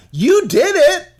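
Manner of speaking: high, loud, laughing disbelief; comic calling out pastors who pretend not to enjoy applause; incredulous rant. Real, not acted. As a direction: push it up high, half laughing. Mocking pious pastors, laughing.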